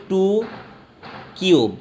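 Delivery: "ଟୁ কিউব" with a long pause between the words; pronunciation demo. Shown as a demonstration. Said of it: "এইটা উচ্চারণ করবে".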